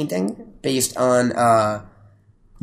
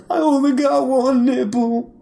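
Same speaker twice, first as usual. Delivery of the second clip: high-pitched, drawn-out mock whine; mock wailing; 10 semitones higher, slower than usual. Teasing co-host about his nipple panic, mock wailing. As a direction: wail it in a high, slow moan. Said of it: "last night you were like".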